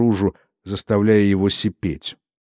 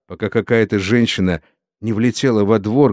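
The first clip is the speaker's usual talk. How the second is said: ordinary delivery, nothing marked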